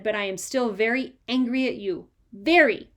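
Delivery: stern scolding. Acted. Mother scolding naughty son.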